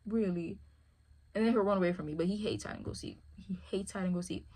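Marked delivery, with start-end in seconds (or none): 0.0-0.6 exasperated dog. Pretend. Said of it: "he looks at me like".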